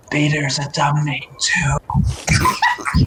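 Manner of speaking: sly stage whisper; Galileo. Acted. Galileo whispers to the one holding him, hushed and whispered. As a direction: whisper it, fading to pure breath on the last word. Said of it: "Galileo whispers to you in your hands".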